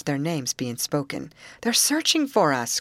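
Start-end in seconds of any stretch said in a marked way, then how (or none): 1.6-2.8 higher, lifted exclamation; raised, excited voice; excited cry. A narrator's reading. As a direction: cry out the news to friends. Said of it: "cried Molly".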